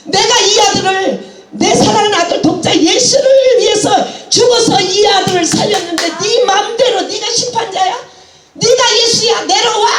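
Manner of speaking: preacher voicing God scolding her hard; God's rebuke. God rebuking the preacher for judging her son, stern scolding. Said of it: "막 호통쳐서".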